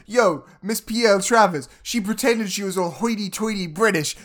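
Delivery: hammed-up loud assistant, building on the last words; mock tattling assistant. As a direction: announce it like a scandalous reveal. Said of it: "writer's room assistant, uh, is like".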